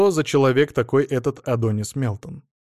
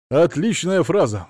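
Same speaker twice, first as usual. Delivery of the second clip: slow, higher and louder exclamation; delighted exclamation; 5 semitones higher, 5 dB louder than usual. A narrator's reading. Lawyer admires his client's saying, exclaiming. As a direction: exclaim it with relish, drawn out. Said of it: "воскликнул адвокат".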